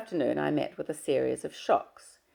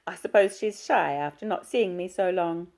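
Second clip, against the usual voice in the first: gushing, sing-song mother, pitched far higher; mother's voice; 4 semitones higher, 5 dB louder than usual. Acted. Mother fusses over her shy daughter, high and gushing.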